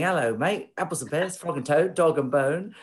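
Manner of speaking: lightly put-on Cockney, only a hint of it; tossing off Cockney rhyming slang in a mild mock Cockney accent. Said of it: "that actually means that you're a Cockney".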